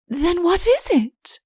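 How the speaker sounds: high, eager question; eager high-pitched question; eager cry. A narrator's reading. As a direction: ask it eagerly, a little slow. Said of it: "she cried, clasping her hands eagerly".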